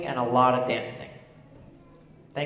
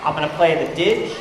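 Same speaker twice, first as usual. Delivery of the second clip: raised voice over the music; calling out loud; 2 semitones higher, 4 dB louder than usual. Real, not acted. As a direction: call it out to the whole room. Calling out to a dancing crowd.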